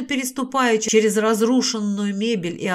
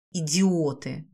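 low, soft hissed insult; quiet contemptuous hiss; 4 semitones lower, 4 dB quieter, slower than usual. A narrator's reading. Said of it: "прошипела Александрит".

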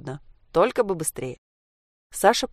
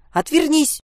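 loud, high cry breaking into a squeak; helpless squeak; 10 semitones higher, 5 dB louder, slower than usual. A narrator's reading. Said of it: "срываясь на писк от беспомощности". (срываясь на беспомощный писк)

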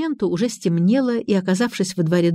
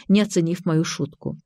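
usual speaking voice

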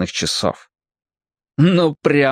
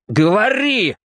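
higher, snapped command; bark; 10 semitones higher, slower than usual. A narrator's reading. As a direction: bark it at him. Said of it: "рявкнул Квакер".

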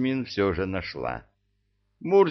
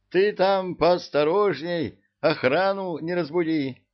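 higher, louder, pressing caution; urgent warning; 9 semitones higher, 4 dB louder than usual. A narrator's reading.

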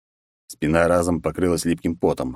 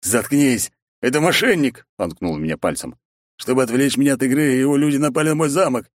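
angry shout; 7 semitones higher than usual. Acted. Zaruba yells at the manager and points at the hero, furious. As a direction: rage at the manager.

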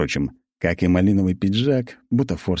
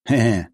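smirking chuckle; 5 semitones higher, 4 dB louder than usual. Acted. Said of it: "усмехнулся некромант".

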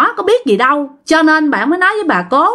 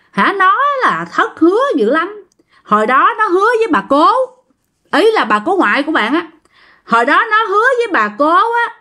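scolding spirit; 4 semitones higher than usual. Retold or imitated. Possessed spirit scolds the niece.

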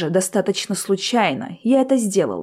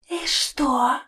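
contemptuous smirk; 5 semitones higher, 4 dB quieter than usual. A narrator's reading. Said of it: "презрительно ухмыльнулся призрак".

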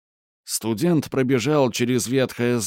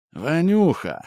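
calling out; 7 semitones higher than usual. Acted. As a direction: call his name out. Душман окликает студента. (громкий оклик)

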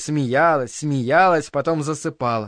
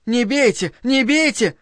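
narrated cry; 8 semitones higher than usual. A narrator's reading. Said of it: "И крик Линды".

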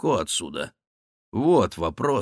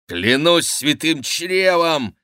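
higher, slow, louder oath; exclaiming oath; 6 semitones higher, 4 dB louder, slower than usual. Acted. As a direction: swear in surprise. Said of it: "воскликнул Шико".

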